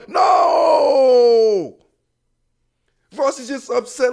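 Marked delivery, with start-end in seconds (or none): 0.1-1.8 a sharp, higher shouted no; emphatic no. Real, not acted. Host dismissing a jealous partner, shouted no. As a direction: shut the idea down hard.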